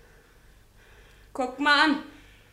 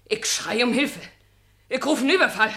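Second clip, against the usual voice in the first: angry threat; 6 dB louder than usual. Acted. Woman threatens to call for help.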